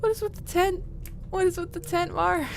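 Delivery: shrieking question, very high and loud; high startled squeal. Real, not acted. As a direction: squeak it out in alarm. Startled squeal at game creature.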